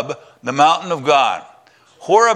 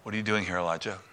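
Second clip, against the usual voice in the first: much softer and lower, hushed; gentle whisper; 6 semitones lower, 13 dB quieter, much faster than usual. Acted. God in the cave asking Elijah, a hushed gentle whisper. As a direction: breathe it like a still small voice. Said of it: "a gentle whisper".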